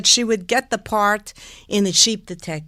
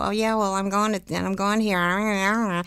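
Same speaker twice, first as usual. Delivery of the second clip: lazy American talk; 4 dB quieter than usual. Shown as a demonstration. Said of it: "we talk like this".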